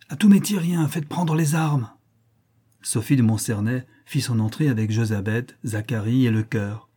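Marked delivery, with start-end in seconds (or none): 0.1-1.9 grand ton de reine, plus haut et lent à la fin; voix grossie. Acted. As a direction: une petite fille qui joue la reine farouche. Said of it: "en grossissant sa voix". (voix grossie de reine de théâtre)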